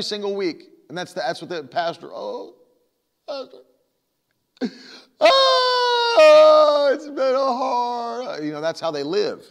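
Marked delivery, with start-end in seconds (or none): 2.1-3.6 high, small, halting whimper; mock crybaby churchgoer. Churchgoer coming to the pastor like a hurt kid, high mock whimper. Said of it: "Christians that come into church like that". 5.2-8.4 loud, high mock wail, stretched out; hammed-up bawling. Churchgoer crying to the pastor every week, loud exaggerated wail. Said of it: "Christians that come into church like that".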